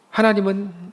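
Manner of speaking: ordinary talk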